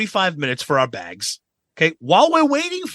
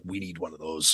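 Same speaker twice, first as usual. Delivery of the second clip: quiet longing aside; 9 semitones lower, 12 dB quieter than usual. Retold or imitated. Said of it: "I'm like".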